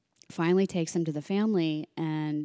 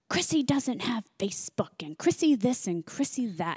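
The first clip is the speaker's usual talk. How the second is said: mock yell; 7 semitones higher than usual. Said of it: "He starts yelling at me".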